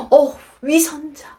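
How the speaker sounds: gasped, slow accusation; gasp, then slowly name what you see; re-enacted appalled discovery; shocked realization. Child's shocked thought of mother.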